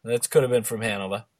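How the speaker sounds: Hanover ending in a Boston "-vah"; Boston accent. Acted. Agreeing on a hometown guess in a Boston accent. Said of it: "episode in our Boston accents".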